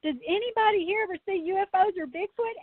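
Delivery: retold call for attention, no real shout; speaking up. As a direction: pitch it up as if addressing a bored crowd. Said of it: "I spoke up really loud".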